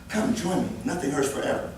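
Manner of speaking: soft, soothing invitation; gentle coaxing. Pretend. Nurse in natural stance invites someone over, softly coaxing. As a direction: coax them over quietly, as if in mock comfort.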